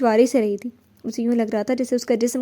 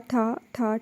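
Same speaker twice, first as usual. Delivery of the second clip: softer, distant-sounding gunshot bangs; gunshot sounds; 5 dB quieter, slower than usual. A narrator's reading. Narrator voicing the last shots fading, soft distant bangs. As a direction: fade the shots as if further off. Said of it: "ٹھا ٹھا کی آواز".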